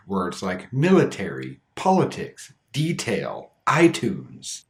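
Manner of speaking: "military, politics, detail, iTunes" each with a clear T; unflapped T. Shown as a demonstration. Teacher listing exceptions for learners, clear unflapped T. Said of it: "should have the flap T, but don't".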